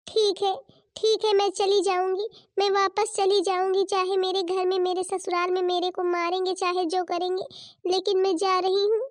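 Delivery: acted huffy self-pity; hurt, wailing protest. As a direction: play the wronged, weepy sister. Hurt sister threatens to leave.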